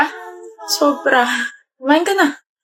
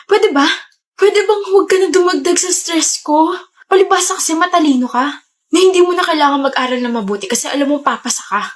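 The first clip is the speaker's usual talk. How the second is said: shouting; 3 semitones higher than usual. Acted. Stressed student yelling at her boyfriend to leave her alone, shouting. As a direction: vent all the stress at him. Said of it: "Ellie, you don't have to shout".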